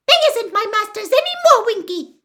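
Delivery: high, loud, fast elf retort; defiant. Acted. Dobby answers Winky's scolding, defiant. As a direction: squeak back boldly and quickly. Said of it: "said Dobby defiantly".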